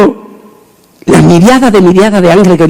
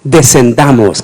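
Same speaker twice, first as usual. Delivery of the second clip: solemn God; 3 semitones lower, slower than usual. Acted. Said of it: "Y dijo el Altísimo".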